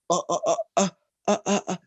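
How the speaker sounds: high, halting "uh" noises; mock baffled stuttering; stumped kids' stammer. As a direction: imitate children stuck on a puzzle. Imitates kids stumped by paradox.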